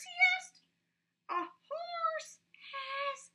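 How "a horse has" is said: slow, drawn-out snake, higher. A narrator's reading. Snake drawling its answer to Roy, slow. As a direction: stretch every sound like a lazy snake.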